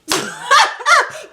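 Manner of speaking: high shouted cackle; big mocking cackle; loud cackle. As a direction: throw back a triumphant loud laugh. God's voice laughing.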